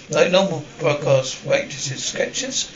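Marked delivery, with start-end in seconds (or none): 2.0-2.7 breathy, high horrified repeat of Skechers; appalled echo. Acted. Waitress hears cheap shoes suggested, appalled. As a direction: recoil at the word Skechers like an insult. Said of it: "How dare you?".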